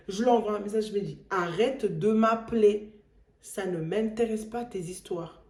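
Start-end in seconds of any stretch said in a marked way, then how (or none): 1.3-5.4 loud, emphatic annoyed retort. Retold or imitated. Fed-up woman telling the caller to stop calling, annoyed. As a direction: retell it firmly, fed up. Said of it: "ça m'avait vraiment énervé".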